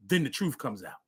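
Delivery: ordinary talk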